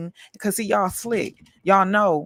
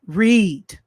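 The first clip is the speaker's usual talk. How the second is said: loud command; 3 semitones higher, 7 dB louder than usual. Shown as a demonstration. To lazy viewers, one loud command Read. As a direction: Read barked loud and falling. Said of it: "You need to R E A D".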